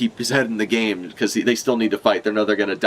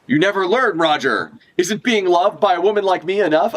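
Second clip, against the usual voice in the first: a hint of a jealous woman, pitched higher; lightly voiced scorned lover, teasing; mock jealous woman; 9 semitones higher than usual. Jealous woman voiced over anime.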